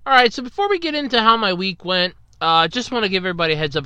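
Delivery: blocked nose from a cold; stuffy nose. Real, not acted. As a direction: talk with a stuffy head cold. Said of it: "If I sound a little stuffy".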